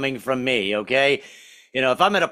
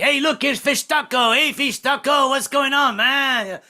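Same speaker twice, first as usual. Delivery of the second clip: high, louder cheery greeting; restaurant regulars greeting; 10 semitones higher, 3 dB louder, slower than usual. Retold or imitated. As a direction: friendly shout across the diner. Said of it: "people call me Fish Taco".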